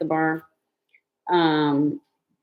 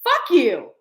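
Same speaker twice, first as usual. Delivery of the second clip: retold angry retort; 8 semitones higher, 5 dB louder than usual. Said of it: "And I was like".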